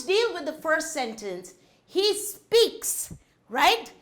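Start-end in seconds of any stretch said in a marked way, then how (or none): 1.8-3.1 "He" hit high and hard, "speaks" lighter; stress on he. Shown as a demonstration. Teacher stressing "He" for the class: punched high. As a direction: lift the word "He" above the rest. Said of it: "So what is it reference to?".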